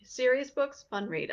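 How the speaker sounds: "Serious" set high and strong; "fun read" dropped short; stress on serious. Real, not acted. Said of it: "you can do a couple of serious books and then you have a fun read".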